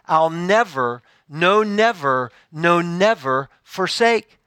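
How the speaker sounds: slow, measured verse reading; deliberate, spaced-out poetic delivery; emphatic hymn recitation. Acted. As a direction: recite it line by line, weighting each phrase. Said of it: "hymn expresses this emphatic promise".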